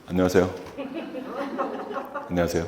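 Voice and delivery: low, soft, lifeless hello; dull, drained hello; flat low greeting. Shown as a demonstration. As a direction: mumble the greeting like you don't care. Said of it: "이렇게 인사했나요?".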